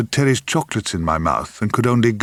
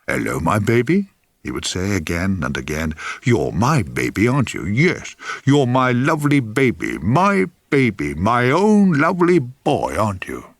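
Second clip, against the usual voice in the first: put-on doting baby talk. Grandfather cooing to the baby on his knee, mild doting baby talk. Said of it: "with many loving noises".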